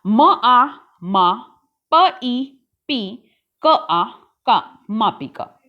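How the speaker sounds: very slow spelling that drops to a whisper at the end; teacher slowly assembling मापिका; slow syllable building. Shown as a demonstration. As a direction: draw each syllable out, then breathe मापिका. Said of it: "आगे है".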